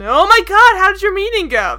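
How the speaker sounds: high, loud mock actress reading; hammed-up bad acting. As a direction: burst out with overdone soap-style gush. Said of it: "That's how she says it".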